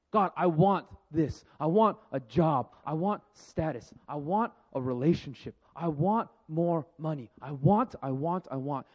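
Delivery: slow, pleading list of wants, mock greedy; whiny wanting. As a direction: drag out each I want like a needy prayer. Mimicking people's endless wanting prayers.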